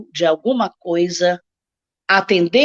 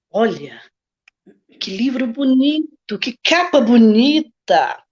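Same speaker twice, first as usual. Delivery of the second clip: voz expressiva. Shown as a demonstration. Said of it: "prepare um tom de voz expressivo".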